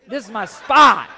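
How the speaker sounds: loud laughing claim on my spot; mock-stubborn yell; defiant shout. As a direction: plant your feet and shout spot. Repeated defiant line.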